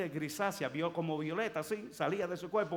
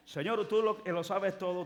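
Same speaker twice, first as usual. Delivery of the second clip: mock loud prayer; 5 semitones higher, 6 dB louder than usual. Mock prayer, louder and higher.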